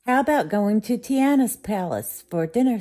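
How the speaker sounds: hearty invitation; cheerful father. Acted. Father inviting daughter to dinner, jolly and loud.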